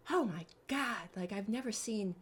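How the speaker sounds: a touch of breathless astonishment; mild retold amazement. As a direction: marvel at someone's hidden gift. Acts out amazed friends running up.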